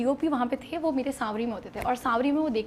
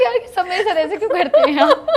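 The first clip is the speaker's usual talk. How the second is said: much higher and louder, laughing through it; laughing complaint; 7 semitones higher, 10 dB louder than usual. Real, not acted. (ہنستے ہوئے شکوہ)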